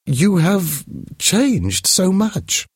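slow, high elegant lady, shocked; drawn out as if she can hardly believe it. Acted. To Mathilde, worn by hard years, slow high dismay.

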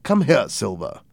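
an understated call across a short distance; mild shout. Acted. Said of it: "the doctor shouted to him".

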